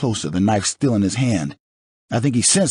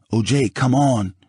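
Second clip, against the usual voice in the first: slow, slightly higher plea; pleading; 5 semitones higher, slower than usual. Acted. Charlie pleading with O J to leave, a touch of desperation. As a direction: gently beg him to stop.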